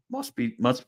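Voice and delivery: real voice crack; voice breaking. Real, not acted. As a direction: voice cracks and gives out mid-phrase. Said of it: "why my voice broke there".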